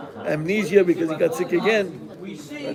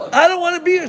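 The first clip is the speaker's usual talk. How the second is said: very high, louder, near tears; tearful plea; 12 semitones higher, 7 dB louder, much faster than usual. Acted. Maria at the church regretting what she did, tearful. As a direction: plead through rising tears. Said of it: "Starts crying".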